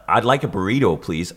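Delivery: lightly Americanised polite order; put-on American accent. Shown as a demonstration. Correcting his burrito order so they understand, American accent. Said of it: "speak an American accent to order a burrito".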